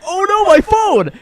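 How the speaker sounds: very high, drawn-out mock cry; mock panicked wail. Friend imitating Jason losing his phone, mock panicked wail.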